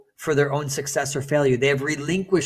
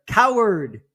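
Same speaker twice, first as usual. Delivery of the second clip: high, loud shouted reply; echoed shout; 7 semitones higher, 5 dB louder than usual. Acted. Mountain answering the angered son, high echoing shout. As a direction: shout it back like an echo. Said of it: "He receives the answer".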